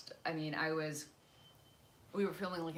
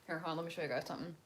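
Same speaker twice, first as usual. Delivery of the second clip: talking while chewing food; mouth full; 2 semitones lower, 9 dB quieter, much faster than usual. Real, not acted. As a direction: say it round a mouthful. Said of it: "Sorry if I'm eating with my mouth open".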